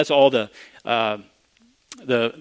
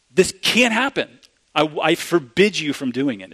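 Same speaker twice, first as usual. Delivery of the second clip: emphatic refusal; 3 semitones higher than usual. Retold or imitated. Peter's refusal voiced.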